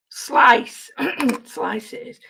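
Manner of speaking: hoarse, voice giving out; croaky, catching in the throat; losing voice. Real, not acted. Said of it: "I keep losing my voice".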